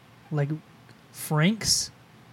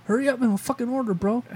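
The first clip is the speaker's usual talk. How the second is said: higher and fast, impatient fake British cashier; mock British accent; 7 semitones higher than usual. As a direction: rush the customer in a bad British accent. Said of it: "Goddamn British accent".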